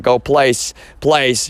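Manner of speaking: commanding a dog. Retold or imitated. Mocking the people who treat him like a dog, mild mock command. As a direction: bark it out like telling a dog to go to its spot. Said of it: "it's like I'm a dog".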